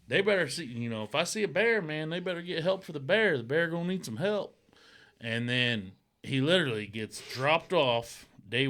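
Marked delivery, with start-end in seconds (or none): 0.1-4.6 mock bravado.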